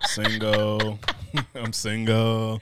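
mock self-pity. Mock sad line during fake crying.

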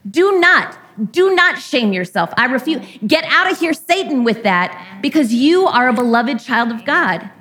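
high, insistent no, no, no, brushing off shame; fierce loving refusal. Pretend. Sibling in Christ refusing your shame, high and emphatic. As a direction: shoo away the shame like a protective sibling. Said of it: "and they will say".

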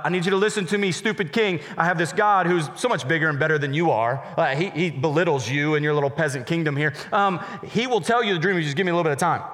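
hammed-up insolent teen mouthing off to the king; half-joking arrogant taunt at a stupid king; hot, cocky. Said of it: "if Daniel went in there hot".

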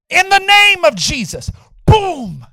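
commanding shout. Retold or imitated. Student to the leader with sage, loud command. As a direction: re-enact a booming spiritual command. Retells commanding the man to fall.

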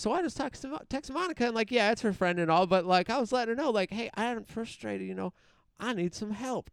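hint of a frustrated old man confiding; lightly voiced old man. Old man story continues, high voice.

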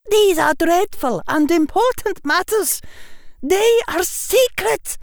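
put-on high, loud stern old woman; stern professor. A narrator's reading. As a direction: warn gravely like a strict teacher. Professor warns child, voiced figure.

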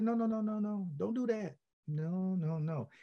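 softly talking a teammate down; soft, soothing string of noes; gentle reassurance. Retold or imitated. Defender consoling quarterback after interception, gentle reassurance.

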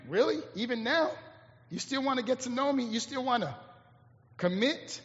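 soft, tentative acted questions; hesitant doubt. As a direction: ask quietly, unsure of the answer. Imagined vulnerable doubt at being known.

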